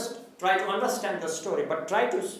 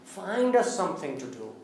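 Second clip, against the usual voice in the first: pleading; 3 dB quieter than usual. Shown as a demonstration. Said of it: "that means you plead".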